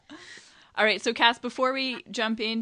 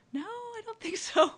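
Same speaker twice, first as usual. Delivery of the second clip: high, laughing no; laughing disbelief; 14 semitones higher than usual. Retold or imitated. Retold own disbelieving reply.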